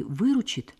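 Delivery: выручит lifted high in a questioning echo. A narrator's reading. Svetlana checks what he said, questioning выручит. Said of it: "переспросила Светлана".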